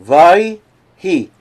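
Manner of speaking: "Vayhi" said as two separate, weighty syllables; split into two words. Shown as a demonstration. Teacher explains the word as two, "Vayhi" split apart. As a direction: break "Vayhi" into vai and hi, slowly. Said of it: "two words".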